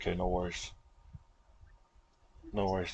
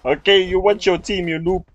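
shouting orders over battle; 7 semitones higher, 6 dB louder than usual. Real, not acted. Repeats taunt louder.

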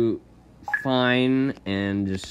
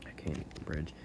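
muttered under the breath, much softer; frustrated low mumble before exploding; quiet mutter; 7 semitones lower, 16 dB quieter, faster than usual. Real, not acted. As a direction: say it to yourself, barely aloud. Mutters then yells same line.

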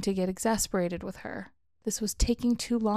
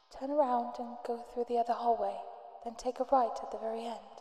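murmured; 3 semitones higher, 6 dB quieter than usual. Acted. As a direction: murmur it back over the speaker. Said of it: "The speaker murmured back to me".

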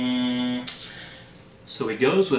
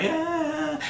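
dog voice. Acted. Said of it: "Cerberus is like".

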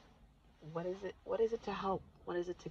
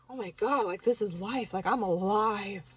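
amazed relief; 5 dB louder than usual. Retold or imitated. Reliving feeling rejuvenated.

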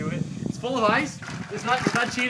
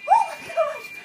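in ice cold water. Real, not acted. Still soaked in ice water.

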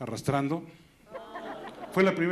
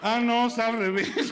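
doctor realizing; 7 semitones higher, 3 dB louder, slower than usual. Acted. Doctor voice in joke.

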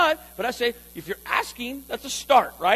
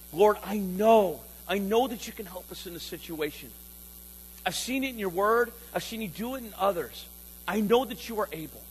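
quiet prayer; 3 semitones lower, 3 dB quieter than usual. Pretend. Pastor modeling a trusting prayer to the Lord, soft. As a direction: pray it humbly, close to the mic.

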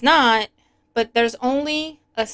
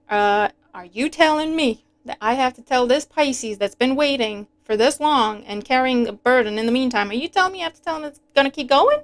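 worked up disbelief; 2 semitones higher than usual. Retold or imitated. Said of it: "I got a little bit worked up".

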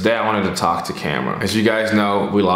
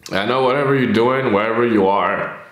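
tearful; 3 semitones higher than usual. Real, not acted. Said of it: "before I cry even more".

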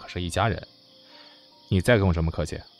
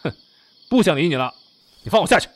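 louder, sulky protest; huffy anger; 2 semitones higher, 5 dB louder than usual. Acted. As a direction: refuse them in a huff. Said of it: "你生气了".

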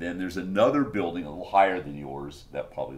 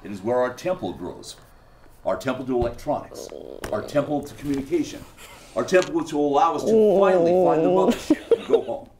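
reverent speech building to an excited, higher finish; solemn cultist professor, then fervent; 5 semitones higher than usual. Acted. Cultist explaining the sacred temple to an interviewer, solemn building to fervent.

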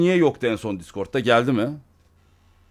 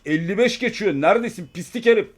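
mock-angry voice message, pitch climbing; emphatic pretend telling-off that rises as it goes; staged angry; 3 semitones higher than usual. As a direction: scold a late friend with exaggerated emphasis. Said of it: "Bakayım yeterince vurgulamış mıyım?".

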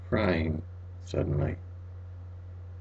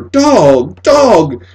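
calling over and over; 10 semitones higher, 14 dB louder than usual. A narrator's reading. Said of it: "He said it over and over".

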